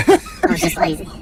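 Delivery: high laughing punchline. Real, not acted. Comic telling his own story, laughing at the joke. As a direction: crack up while saying it.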